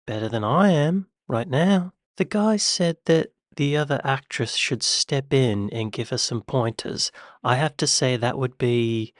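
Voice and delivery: put-on British accent drifting towards Australian; wobbly British-Australian accent; attempted British accent. Reactor defending the voice actress, in a badly faked British accent. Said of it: "I feel myself sounding more Australian".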